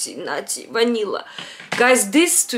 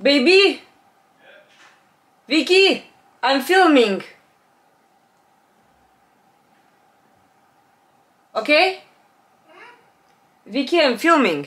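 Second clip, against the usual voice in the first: mother calling to her daughter that she is filming, raised voice; 6 semitones higher than usual. Real, not acted. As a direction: call Vicky from a distance, a bit firm.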